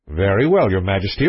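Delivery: low, composed prince. Acted. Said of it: "becoming a little more respectful".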